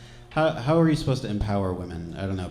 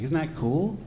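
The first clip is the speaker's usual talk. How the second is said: higher-pitched mild enthusiasm; imitating hyped mom; 5 semitones higher than usual. Mom proudly shares pilgrim ancestry, mock-hyped. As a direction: lightly mimic an eager rising question. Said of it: "she was hyped on that".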